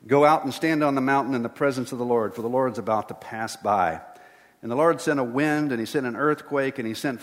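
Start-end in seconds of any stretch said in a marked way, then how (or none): 0.1-4.0 loud, commanding, a little fast; lightly voiced booming God. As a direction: proclaim it as God's command. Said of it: "The Lord said to him".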